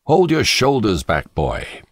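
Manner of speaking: stern reply. A narrator's reading. Father correcting his son's posture, stern reply. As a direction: bark a frowning order at the boy. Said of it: "I frowned and said in reply".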